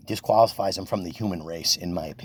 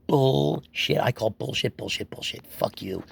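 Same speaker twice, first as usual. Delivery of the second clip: calling bullshit; 4 semitones higher, slower than usual. Real, not acted. Calling out hypocrisy.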